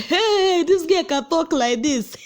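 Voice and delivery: high, loud laughing disbelief; amazed laughing. Retold or imitated. Reacting to Kesha's insult, laughing amazed. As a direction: gasp then laugh it out.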